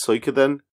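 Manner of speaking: Suikoden starting with a "soo" sound; Suikoden as Soo-ee-koden. Shown as a demonstration. Co-host shows their own pronunciation, Suikoden as Soo-ee-koden. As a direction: say Suikoden like Japanese suika. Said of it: "See, I pronounce it".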